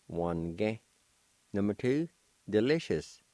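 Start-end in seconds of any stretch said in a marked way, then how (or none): 0.1-0.8 "Wange" said as two syllables, wan-ge, no I; silent I version. Shown as a demonstration. Teacher shows the shortened Cherokee word, clipped form. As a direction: drop the I: "Wange". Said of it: "it will sound like this".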